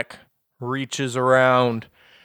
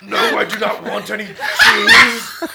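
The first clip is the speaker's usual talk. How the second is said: dragon voice; 6 semitones higher, 6 dB louder than usual. Acted. Dragon answers the cheese offer.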